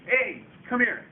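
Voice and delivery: giant giving orders. Retold or imitated. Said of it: "he tells his guy".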